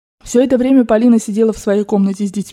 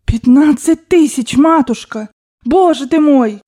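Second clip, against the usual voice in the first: higher, louder, drawn-out lament; aghast cry; 5 semitones higher, 4 dB louder, slower than usual. Acted. Servant lamenting his mistress's gambling loss, aghast cry. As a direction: wail in servile dismay. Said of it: "крикнул было Потапыч, умилительно всплеснул руками".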